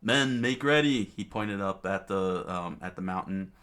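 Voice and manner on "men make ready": high, loud royal order; rally the troops at volume; shouted command. Acted. King ordering his men to march, shouted command.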